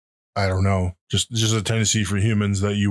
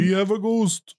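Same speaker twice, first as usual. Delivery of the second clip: spooky title echo; 12 semitones higher than usual. Acted. Echoes the title mockingly.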